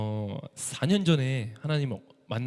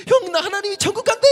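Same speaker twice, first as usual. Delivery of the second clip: much higher and louder, bursting with joy; overjoyed shout; 8 dB louder than usual. Retold or imitated. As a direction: wake the whole house with the news. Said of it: "너무 기쁜 거예요".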